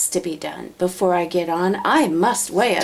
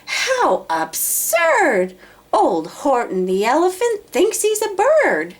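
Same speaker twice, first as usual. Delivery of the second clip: taunting yell; 10 semitones higher, 3 dB louder than usual. Acted. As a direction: drag out the taunt to sting. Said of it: "they yelled".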